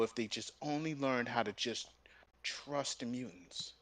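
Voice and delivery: mocking whispered moral. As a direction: hush it like a sappy moral. Mock whisper of the comic's message.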